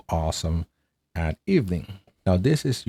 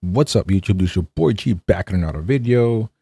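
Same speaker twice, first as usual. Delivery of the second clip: YouTube intro. Acted. Recording a sample intro on the button, upbeat vlogger greeting. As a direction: greet the viewers like opening a video.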